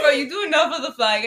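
crying with laughter; laughing. Real, not acted. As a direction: talk through helpless laughter. Laughing hard at a joke.

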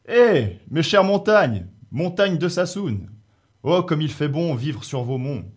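booming, high-pitched cry of joy; joyful shout. A narrator's reading. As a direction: call out jubilantly across the mountains. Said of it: "il crie sa joie de sa terrible voix". (cri de joie tonitruant)

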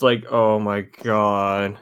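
slow, disgusted oh my god; mock disgust. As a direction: drawl it out in disgust. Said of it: "I'm doing the card meme".

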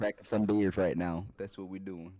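put-on country accent. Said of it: "Just a bunch of country boys".

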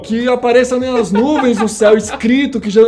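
laughing. Real, not acted. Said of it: "laughing mock prayer after embarrassment".

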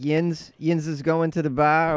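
rough attempt at Pittsburgh accent; badly faked Pittsburgh dialect. Shown as a demonstration. Guest explaining yins to the host, clumsy Pittsburgh accent. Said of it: "probably just destroying the Pittsburgh thing".

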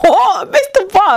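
high, disbelieving question; incredulous. Retold or imitated. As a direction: ask it in total disbelief. Retold incredulous reply to students.

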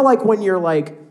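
normal talking voice

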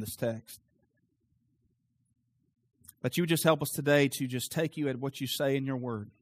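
subdued, earnest congregational prayer; closing prayer. Real, not acted. Closing prayer after the sermon.

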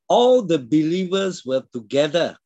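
emphatic verse, landing clearly on "together"; stress on together. Real, not acted. Preacher quoting the verse to stress fellowship, emphatic on "together". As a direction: proclaim it, giving "together" its full weight. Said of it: "I want to emphasize the word together".

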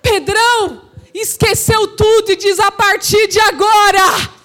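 impassioned pulpit proclamation; full-force preaching. Real, not acted. Preacher voicing Pedrão at Pentecost, fervent and forceful. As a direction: declaim it as a shouted confession of faith.

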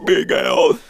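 breathy gasped whisper. Acted. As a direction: gasp the name without voice. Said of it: "Yours was so much better".

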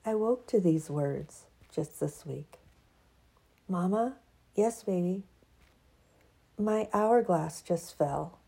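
expressive reading of her own essay; reading her piece. Acted. To her audience, reading her written piece aloud. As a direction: read it like spoken-word prose.

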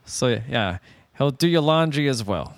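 toothless Jersey clerk; mumbled Jersey accent. Pretend. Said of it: "bad Jersey accent".

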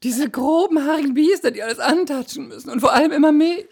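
very high, prissy complaining voice; damsel in distress. Pretend. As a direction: wail like a fussy damsel. Mock damsel complaining about men.

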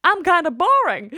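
high, self-deprecating musing; lightly voiced inner thought; mock-dull inner voice. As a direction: voice the thought that you are boring. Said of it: "hvor jeg sådan tænkte".

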